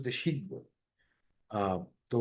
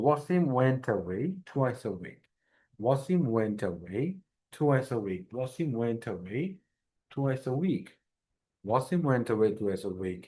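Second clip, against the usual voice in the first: repeated at steady slow pace; tongue twister drill; slower than usual. Shown as a demonstration. Teacher repeating the W twister for practice. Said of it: "tongue টুইস্টটা যদি সহজে করাই".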